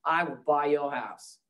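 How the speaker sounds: Australian radio pitch, slowing at the end; imitated Australian accent. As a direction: deliver the guarantee like an Australian ad. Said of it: "he has this great Australian accent".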